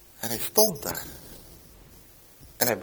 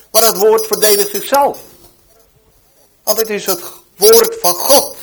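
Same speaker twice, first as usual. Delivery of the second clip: forceful proclamation; 6 semitones higher, 6 dB louder than usual. Retold or imitated. God's words retold as a sermon.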